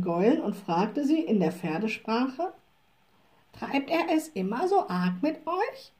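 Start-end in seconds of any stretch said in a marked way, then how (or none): 3.5-5.9 gentle concerned question. A narrator's reading. Witch secretly questions the horses.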